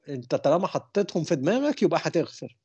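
mock-exasperated protest, rising in pitch; mildly upset complaint. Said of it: "وزعل".

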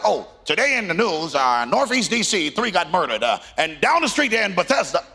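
lightly mocked newscaster cadence; news anchor impression. Preacher sick of the news, imitating a newscaster. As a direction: imitate a reporter rattling through local crimes.

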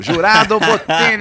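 loud, high, drawn-out introduction; mock announcer. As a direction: announce yourself like a TV juror, hammed-up. Playfully announces himself as show juror.

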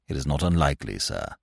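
low, hushed, unruffled reply; quiet, even servant's voice; imperturbable valet. Acted. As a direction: deferential and pitched right down. Valet answers his excited master.

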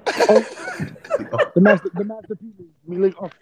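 sloppy, tipsy slurring. Real, not acted. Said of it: "I'm fucked up".

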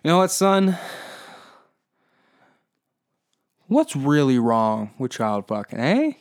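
hammed-up dad brushing it all off; dad making excuses. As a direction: wheedle like a dad rationalizing to his son. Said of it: "my dad's gonna have to be like".

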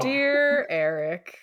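slow, mock tearful whimper. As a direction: fake a sob on Dear Eric. Mock letter opening, laughing.

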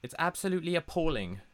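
high, put-on Emma Watson-like voice; high-pitched mimicry. Podcaster teasing co-host for sounding like Emma Watson, high-pitched mimicry. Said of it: "The high-pitched voice and everything".

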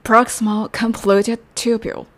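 "proximal convoluted tubule" said slowly and deliberately; careful classroom drill of "proximal convoluted tubule"; slow practice model. Shown as a demonstration. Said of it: "練習しましょう".

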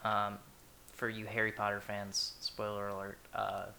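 breathing heavily through the nose between words; heavy nose breathing. Real, not acted. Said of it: "stop breathing into the microphone".

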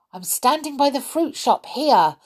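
yelling back. A narrator's reading. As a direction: call back across the road. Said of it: "yelled back Peter".

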